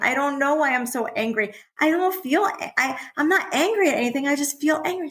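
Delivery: put-on a kid baffled by their own anger; upset child. Child voiced in parent's story.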